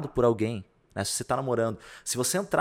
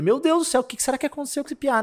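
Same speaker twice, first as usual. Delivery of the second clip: high-pitched retold bewilderment; mock alarm; 12 semitones higher, 4 dB louder than usual. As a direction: exclaim it high, as if taken aback. Reconta seu espanto diante do choro. (espanto encenado, voz aguda)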